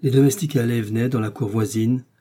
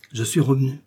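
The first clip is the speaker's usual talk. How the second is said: short, halting; 3 semitones higher than usual. Acted. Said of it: "d'une voix brève, coupée de pauses".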